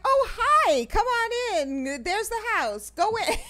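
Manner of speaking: high, slow, overdone welcome ending in a shout; mock host greeting. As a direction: wave strangers in like a frantic host. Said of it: "and I'm like".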